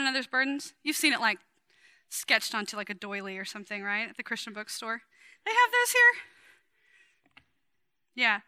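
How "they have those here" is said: surprised aside. Real, not acted. Aside about Christian bookstore doily.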